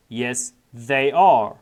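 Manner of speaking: drawn out word by word; very slow model reading. Shown as a demonstration. Teacher repeating the answer for students, very slow. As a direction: stretch it for learners. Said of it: "normal then slow model".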